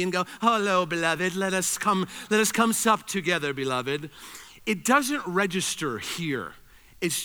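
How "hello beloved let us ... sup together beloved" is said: a light hammed-up posh host, glass of tea in hand; mock sophisticated toff. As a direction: tease the refined churchgoer. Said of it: "if you're super sophisticated and you walk around with your glass of tea".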